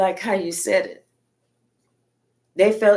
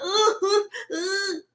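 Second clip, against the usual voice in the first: laughing mock ooh; 9 semitones higher than usual. Real, not acted. Mocking the offended reaction.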